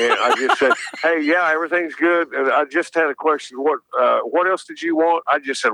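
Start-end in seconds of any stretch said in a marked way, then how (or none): 1.0-5.2 lightly acted nonchalant phone check-in; feigned casualness. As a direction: cover a memory lapse, slightly raised pitch. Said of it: "I tried to act like I wasn't having a senior moment".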